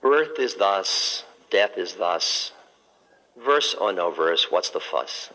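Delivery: slow, measured reciting; recited verse. Acted. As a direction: give each line of the poem weight. Dying Zen master recites his verse.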